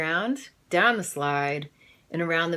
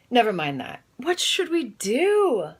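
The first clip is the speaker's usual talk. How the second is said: demanding; 6 semitones higher, 4 dB louder than usual. Acted. Maurice demanding his family act, high and insistent. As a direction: press them for an answer. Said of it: "demanded Maurice Hope".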